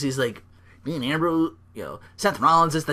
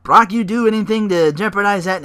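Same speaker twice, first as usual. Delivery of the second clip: higher, louder flustered backpedalling; light mock of a slick manager; fast-talking manager; 6 semitones higher, 6 dB louder than usual. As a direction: talk your way out of trouble. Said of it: "he's like".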